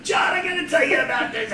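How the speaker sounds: grandma calling out to John, breath running short; imitating breathless grandmother. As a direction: push the line out like her lungs are emptying. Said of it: "That's what she sounded like".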